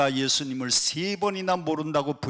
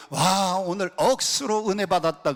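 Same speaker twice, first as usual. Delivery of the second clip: lightly imitated Gyeongsang accent; playful touch of Gyeongsang speech; Gyeongsang dialect; 3 semitones higher than usual. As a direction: exclaim like a Gyeongsang local. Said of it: "경상도 사람들은 경상도 사투리를 씁니다".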